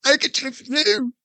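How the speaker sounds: put-on Newsies boy in a high British-Brooklyn squeak; British Brooklyn accent. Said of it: "British Brooklyn accent".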